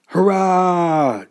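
high, loud, long-held cheer; triumphant cheer from rescued fish. A narrator's reading. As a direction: let out a jubilant storybook hurrah. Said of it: "cheered the fish".

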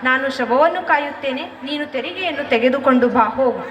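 calm her though he grieves too; consoling. Acted. Husband consoles weeping wife. (ಸಮಾಧಾನದ ಧ್ವನಿ)

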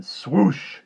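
sudden whooshing sound-word; imitated car whoosh. A narrator's reading. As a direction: let the word rush past like a speeding car. Narrator imitates car rushing past.

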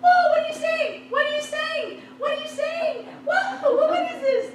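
high, laughing amazement; astonished at the dolphins; amazed. Retold or imitated. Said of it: "when the dolphins are coming".

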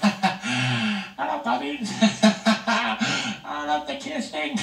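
laughing coo. Real, not acted. Cooing at puppies.

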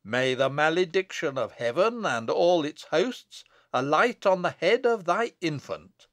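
mounting, emphatic malediction; denunciation. Acted. Abbot curses the witch's infant, stern denunciation. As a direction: pronounce it as a solemn curse. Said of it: "raised his hand in denunciation".

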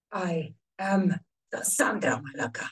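whispered gravelly hero line. Shown as a demonstration. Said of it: "That doesn't sound right".

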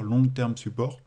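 English words said with a light French accent. Real, not acted. Teacher spelling out LTS to students, light French accent. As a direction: say Long Term Support the French way, lightly. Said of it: "avec mon accent français évidemment".

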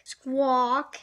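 loud squawk, rising at the end; parrot squawk. A narrator's reading. Polly escaping from Jake, loud squawk.

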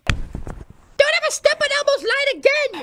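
slow, threatening warning; slow menace. Acted. Threatening child actor.

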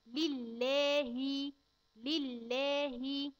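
لله drawn out very slowly with a breathy ه at the end; clear final ha. Shown as a demonstration. Teacher showing a child the ha in lillah. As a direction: stretch لله and let the ه breathe out. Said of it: "والهاء في لله نقول ايه".

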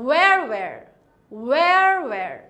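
"where" said as wer with no h sound, repeated; silent h. Shown as a demonstration. Teacher showing students how "where" sounds, no h. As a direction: say "where" twice, no breath of h at the start. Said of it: "এখানে হা উচ্চারণটা কিন্তু হচ্ছে না".

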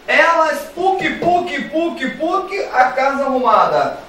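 high, bouncy sound effects; high playful chant; playful sing-song. Acted. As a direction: read it out like a cartoon. Teacher reads sentence playfully.

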